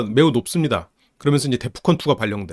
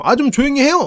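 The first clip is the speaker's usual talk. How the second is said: angry shout; 11 semitones higher than usual. Retold or imitated. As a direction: blow up at dad. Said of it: "책상을 꽝 치면서".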